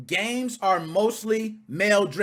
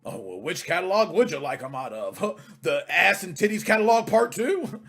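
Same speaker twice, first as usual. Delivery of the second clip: mocking imitation; 3 semitones lower than usual. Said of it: "that shit is stupid".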